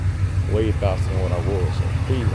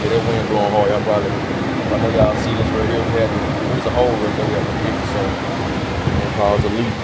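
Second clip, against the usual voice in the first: shouting over wind; 4 dB louder than usual. Real, not acted. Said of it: "I can't even hear myself over the wind".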